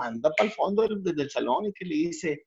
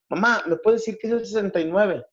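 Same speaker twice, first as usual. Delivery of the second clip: put-on child voice; 7 semitones higher than usual. Son asks mother in joke.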